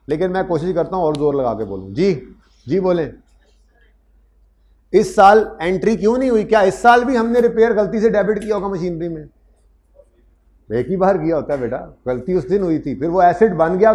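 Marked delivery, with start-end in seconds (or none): 4.9-9.3 voicing student's question. Teacher voices student's question.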